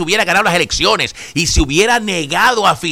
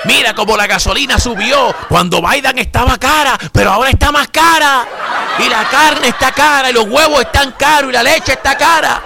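mock complaining partisan; 5 semitones higher than usual. Mocking what Republicans would say under Kamala, higher and laughing. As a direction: parody the Republicans' grumbling, half laughing. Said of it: "Eso es lo que estuvieran diciendo ustedes".

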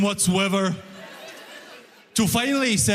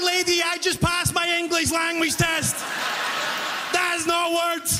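high, raised indignant reply; exasperated protest; 8 semitones higher than usual. Retold or imitated. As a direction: argue back in disbelief. Flustered worker arguing with customer.

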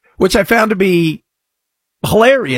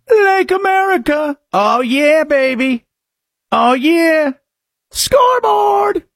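high smug crowing, stretched final shout; mock gloating; 9 semitones higher, slower than usual. Host parodies shopper gloating after free groceries, high smug crow. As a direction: strut out of the store crowing.

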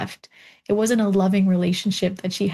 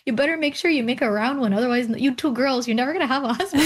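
higher, joking warning with a laugh; teasing grandma; 4 semitones higher, faster than usual. Retold or imitated. Grandmother joking to granddaughters about husbands, teasing. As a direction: tease the girls like grandma would. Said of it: "she goes".

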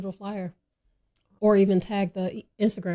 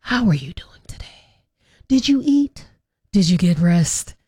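calm check-in voice; 4 semitones lower than usual. Pretend. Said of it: "mental health five minute break with Bree".

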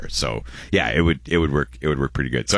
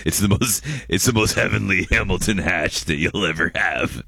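drug dealer voice; 3 semitones higher than usual. Retold or imitated. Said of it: "your Ryan voice".

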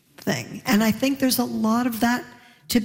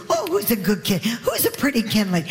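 put-on baby talk. Neighbor cooing to the child.

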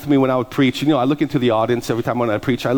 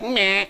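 higher-pitched dismissive noise; imitated dismissive meh; 5 semitones higher than usual. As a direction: mimic a bored scoff.

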